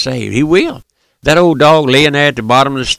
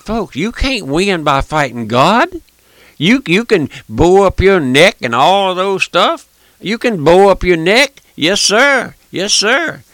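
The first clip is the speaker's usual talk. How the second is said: retold pulpit line; 5 semitones higher than usual. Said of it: "and I said".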